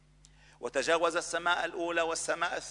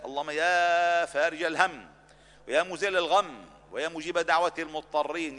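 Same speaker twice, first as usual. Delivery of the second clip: fervent cry. Acted. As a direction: cry out to the one who lifts sorrow. Climactic invocation, +7 dB.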